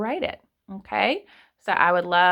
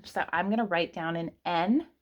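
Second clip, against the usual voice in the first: usual speaking voice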